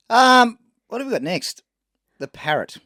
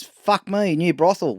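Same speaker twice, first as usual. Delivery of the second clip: higher-pitched joke parrot quote; lightly voiced cheeky parrot, pitched up; 5 semitones higher, slower than usual. Parrot greeting its new home, lightly put-on high voice. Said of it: "The parrot says".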